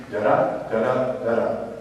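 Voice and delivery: slow "da-da", stress on the second "da"; scanning rhythm. Shown as a demonstration. Teacher scans a sonnet's beat, "da-da" stressed on the second syllable. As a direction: tap out each "da-da" as weak then strong. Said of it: "what we call scanning".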